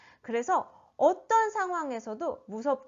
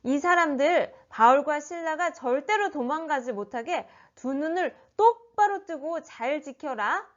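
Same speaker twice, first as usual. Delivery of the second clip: lightly voiced officer giving orders; a mild, higher-pitched command; commanding police officer; 3 semitones higher than usual. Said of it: "경찰이 이 간수에게 명령을 했어요". (살짝 명령하는 경찰 말투)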